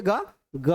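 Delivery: ग held so that it rings; ग drawn out as a demonstration; resonant voiced sound. Shown as a demonstration. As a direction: let the voiced ग hum on. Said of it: "sound गूंजता है".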